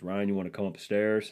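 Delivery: lightly put-on Southern accent; a touch of Southern in the handyman's call. Contractor calling the homeowner upstairs, light Southern accent. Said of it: "I'm gonna give him a Southern accent".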